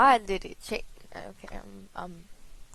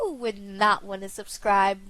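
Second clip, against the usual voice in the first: voice crack; 3 semitones lower than usual. Real, not acted. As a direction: voice cracking mid-question. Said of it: "What was that voice crack?".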